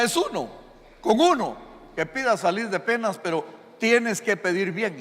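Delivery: hammed-up magic genie setting terms; genie's reply. The genie answers the wisher.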